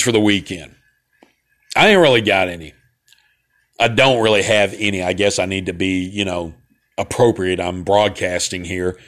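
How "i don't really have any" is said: mock-proper broadcast correction; properly spoken. Shown as a demonstration. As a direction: say it properly, as if on air. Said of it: "speak properly or whatever".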